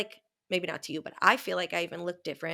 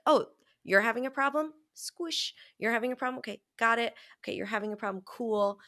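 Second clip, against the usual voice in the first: 1 breezy problem-solver; 3 semitones higher, faster than usual. Retold or imitated. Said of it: "I was like".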